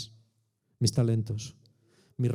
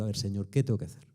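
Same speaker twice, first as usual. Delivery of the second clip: humble prayer; 3 semitones lower than usual. Retold or imitated. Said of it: "me pongo delante de Dios y le digo".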